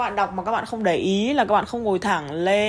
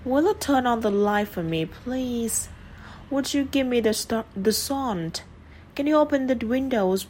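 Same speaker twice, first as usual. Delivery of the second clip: requests said higher, please lifted; polite request; 5 semitones higher than usual. Shown as a demonstration. Teacher modelling polite requests, higher pitch. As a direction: ask politely with a raised pitch. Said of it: "Lên giọng ở cuối câu".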